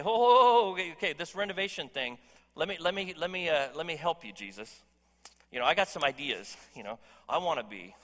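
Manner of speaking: eager, pushy offer of help to God; a bit over-eager, butting in; first, weaker take of the pushy plea to Jesus; pushy helper to Jesus. Shown as a demonstration. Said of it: "no, that wasn't very effective".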